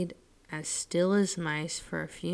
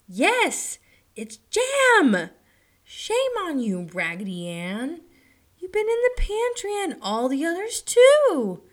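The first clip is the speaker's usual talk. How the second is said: much higher, loud shrieking scold; scolding girl; 11 semitones higher, 10 dB louder than usual. A narrator's reading. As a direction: scold the naughty doll loudly. Mistress scolds doll.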